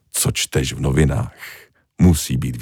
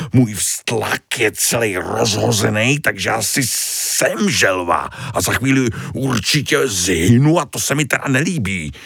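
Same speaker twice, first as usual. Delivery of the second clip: lightly voiced anxious little starfish, higher; a worried kid complaining, pitch climbing; young starfish voice; 6 semitones higher than usual. Bloated starfish Tony protests to the coral, anxious and rising. Tony's voice in story.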